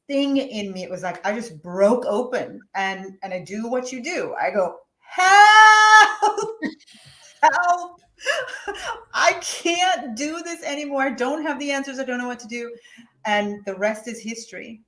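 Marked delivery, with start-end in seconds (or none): 5.0-12.7 high, loud, breaking cry of help. Retold or imitated. Mother at her lowest, crying out for help. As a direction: plead up, voice cracking.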